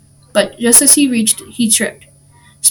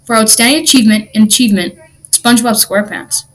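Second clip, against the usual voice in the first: loud, proclaimed award reading; reading aloud; 5 dB louder than usual. A narrator's reading. Patrick reads the trophy to SpongeBob, proclaiming. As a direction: read the inscription out loud. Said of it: "He cleared his throat and read aloud".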